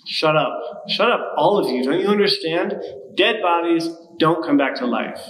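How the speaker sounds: angry outburst. Acted. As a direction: shut them all down.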